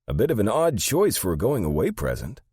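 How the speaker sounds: high, loud character voice; high-pitched, swooping bewilderment; Sandy, incredulous assistant. Acted. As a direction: remark on it in puzzled disbelief.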